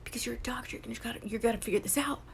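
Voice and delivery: soft, urging whisper; whispered inner voice goading him on; voice in his head. Retold or imitated. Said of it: "there's a voice in his head telling him".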